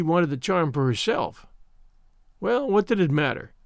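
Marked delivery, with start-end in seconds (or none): none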